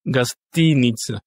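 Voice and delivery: Gastinitsa slow, with "TI" drawn out; stress on first I. Shown as a demonstration. Teacher points to the second syllable, stress on first I. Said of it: "donc le premier I".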